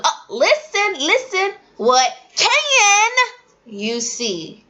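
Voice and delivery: high, slow coaxing to little ones; coaxing young kids. Shown as a demonstration. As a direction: draw small children in gently. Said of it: "So I'll tell them".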